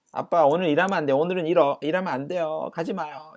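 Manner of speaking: put-on high, loud pleading little girl; whining child. Daughter begging her daddy not to go to work, high and whiny. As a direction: beg like a child clinging to her dad. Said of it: "딸아이가 이제 떼를 쓰는 거죠".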